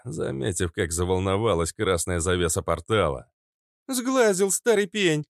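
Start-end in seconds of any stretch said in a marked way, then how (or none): 3.9-5.2 laughing. A narrator's reading. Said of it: "засмеялась Фитилёк".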